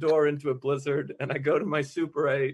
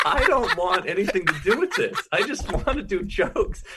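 laughing protest; 5 semitones higher, 3 dB louder than usual. Retold or imitated. Panicked reply, laughing.

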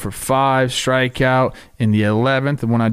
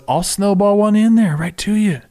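cocky pitcher; 8 semitones higher than usual. Retold or imitated. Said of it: "Pibb goes".

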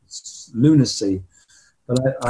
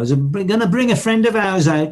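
a light Brummie lilt on the quote; Birmingham accent; 6 semitones higher than usual. Retold or imitated. Rock storyteller quoting the singer's stage call in a Birmingham accent. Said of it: "that Birmingham accent".

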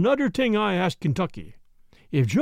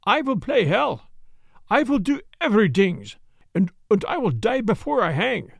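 put-on higher, defiant German-accented threats; 3 semitones higher than usual. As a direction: Jan threatens to fight them all, in a German accent. Jan defies them before hanging.

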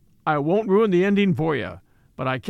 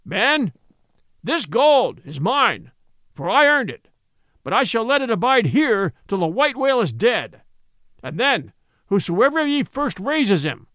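captain's solemn vow; 4 semitones higher, 3 dB louder than usual. Acted. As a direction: proclaim the reward to the crew. Ahab's vow over doubloon.

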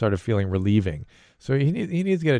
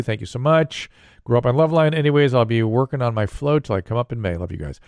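letter read aloud. Acted. Reads listener letter aloud.

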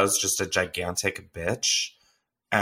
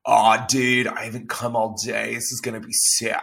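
mock surfer dude. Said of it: "his voice literally is like".

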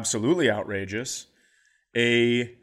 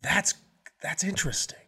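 dry sarcasm; 3 dB quieter than usual. Retold or imitated. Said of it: "I go".

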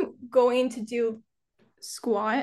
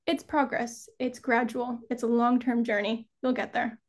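calm self-reassurance. Retold or imitated. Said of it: "calm myself down a bit and just be like".

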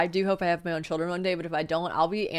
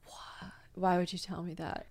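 hushed, much softer retold reaction; stunned disbelief; 11 dB quieter, slower than usual. Woman retelling her reaction to an ex's confession, hushed disbelief. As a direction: say it under your breath, taken aback.

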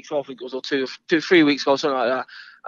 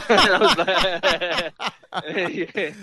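laughing while talking; 3 semitones higher, 4 dB louder, much slower than usual. Real, not acted. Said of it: "I was laughing at that".

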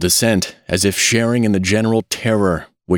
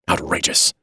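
mildly snapped verdict; word bitten off in one go; 2 semitones lower than usual. A narrator's reading. Family physician ending his outburst, snapping it out. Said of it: "He snapped the last word out in almost one syllable".

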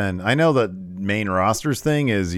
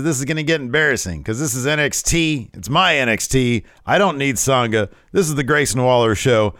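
raised, punchy mock wrestling promo; Waller; 6 semitones higher, 5 dB louder than usual. Waller claiming NXT as his own, boastful. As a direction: boast like a cocky heel. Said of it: "he says".

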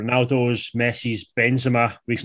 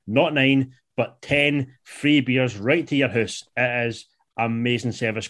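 upbeat sponsor read. Acted. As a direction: sell it like a radio ad. Host reads sponsor ad.

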